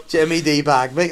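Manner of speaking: flat mock robot voice; imitating a speech-synthesizer robot voice. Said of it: "give him the robot voice".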